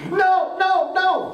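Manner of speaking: imitating a kid screaming no; retold scream. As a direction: shriek it like the panicked boy. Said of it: "literally screaming".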